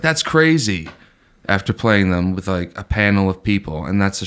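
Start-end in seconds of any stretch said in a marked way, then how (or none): 0.0-0.9 higher-pitched mock amazement; lightly put-on show host reaction; imitating Rob Dyrdek. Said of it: "and goes like".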